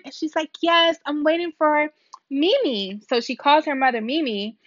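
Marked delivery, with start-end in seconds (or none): 0.6-3.0 put-on little girl. Little girl's answer voiced.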